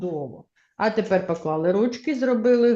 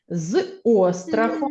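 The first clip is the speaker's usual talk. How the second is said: slow echo reading. Shown as a demonstration. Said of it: "За мною луною".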